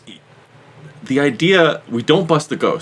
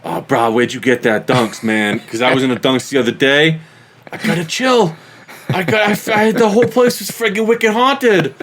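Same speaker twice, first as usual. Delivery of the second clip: exaggerated New England accent; 2 semitones higher than usual. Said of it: "exaggerated New England guys".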